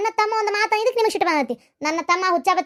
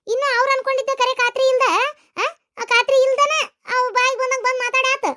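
higher, raised disbelief; shocked protest; 4 semitones higher than usual. Acted. Mother defending her accused son, shocked and raised.

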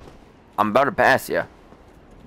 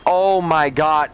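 shocked cry. Real, not acted. Dies to the boss.

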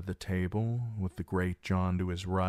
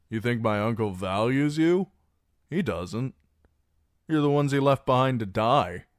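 higher, louder and scornful; cutting loud persuasion; 4 semitones higher, 4 dB louder than usual. Acted. Reek telling the garrison they were abandoned, loud and high. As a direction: twist the knife.

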